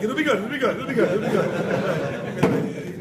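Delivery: high then slow laughing coax; coaxing brother. Retold or imitated. Big brother luring him, slow laughing coax. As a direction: tease him into it.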